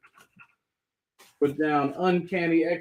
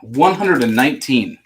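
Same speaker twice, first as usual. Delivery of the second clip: put-on Southern accent; 6 dB louder than usual. Seller reading a comic number to chat in a Southern accent. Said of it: "Real Southern accent on that".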